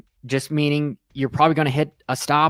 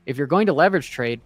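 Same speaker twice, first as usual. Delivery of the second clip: numb from the dentist. Real, not acted. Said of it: "half my face is numb".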